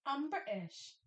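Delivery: "I'm British." in a light British accent, no T sounded in "British"; mock British accent. Shown as a demonstration. Scene: host repeats the British line for the guest, mock British accent. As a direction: say it like a Brit, glottal stop in "British". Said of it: "There's no T in there".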